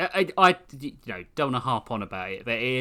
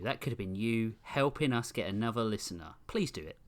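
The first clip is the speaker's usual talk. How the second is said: softer, gently pleading; soft coaxing; 5 dB quieter than usual. Acted. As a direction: coax them softly. Repeat, softer plea.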